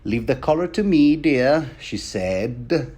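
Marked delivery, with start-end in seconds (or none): 0.1-1.7 higher, lightly acted coy reply; coy seamstress. Seamstress dodges Sansa's question about the dress, acted coy. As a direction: play a coy seamstress, pitched up. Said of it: "being very coy".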